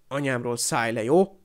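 bristle, then punch the final word upward; mildly heated, offended demand; flaring up. Acted. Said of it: "fortyant fel Seamus".

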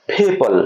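"পিপল" slowly with a puff on the first p; both lips together, air released into "পিপল"; breathy burst opening "পিপল"; aspirated P demo. Shown as a demonstration. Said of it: "এরকম ভাবে".

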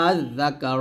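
দা কা read with two clear hamzas, no long stretch; short unstretched আজ দা কা; tashil reading. Shown as a demonstration. Teacher showing the no-stretch reading to students. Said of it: "আর এটা যদি পড়েন তাহলে".

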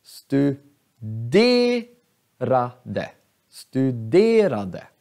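studerade with a long, stressed e in de. Shown as a demonstration. Teacher showing force on the long E. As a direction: hit the de in studerade. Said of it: "På e".

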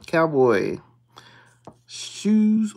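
calls the word out loud and firm; a firm, loud Cowboy. Real, not acted. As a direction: announce it like a find. Calling out scratch-off symbols.

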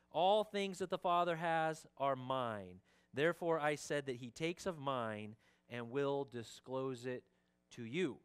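measured proclamation, slowing on key phrases; emphatic scripture reading. Acted. Pastor reads Jesus' words to congregation, solemnly proclaiming.

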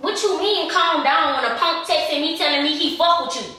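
high-pitched indignant challenge; staged confrontation. Pretend. Prankster accusing partner over a text, outraged. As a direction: fire back in put-on outrage.

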